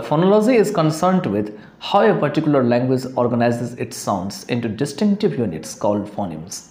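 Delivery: slow, deliberate reading of a textbook definition; teacher dictating a definition slowly; slow dictation reading. Shown as a demonstration. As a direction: read it out word by word for students to follow. Reads the English definition aloud.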